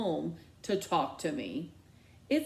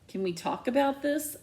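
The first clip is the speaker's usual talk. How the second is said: higher, pleading with stress on about; 7 semitones higher than usual. Acted. Daughter pleading with her angry mom. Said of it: "I plead".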